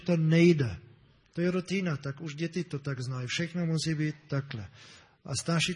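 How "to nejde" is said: retold crying shout. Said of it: "ona začala plákat a křičet".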